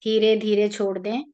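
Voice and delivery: calm, even meditation guide with long pauses; guided meditation. Real, not acted. Leading listeners into an Ekadashi meditation for their ancestors, calm guided-meditation voice.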